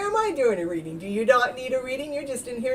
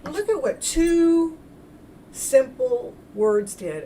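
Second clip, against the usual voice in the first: high, slow astonished "oh"; amazed; 7 semitones higher, 6 dB louder, much slower than usual. Retold or imitated. Healer reliving her amazement at two words, slow and awed. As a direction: marvel slowly at the discovery. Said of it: "and I went, gasps".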